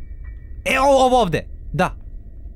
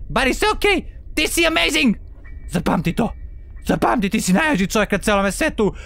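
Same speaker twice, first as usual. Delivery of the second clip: hype pep talk; 3 semitones higher than usual. Real, not acted.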